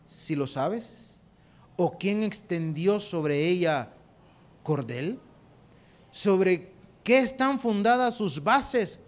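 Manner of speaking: slow, loud, solemn questions; God questioning Job. Retold or imitated. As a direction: roll each question out slowly like God. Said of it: "Y le dice". (Dios interroga a Job, lento y solemne)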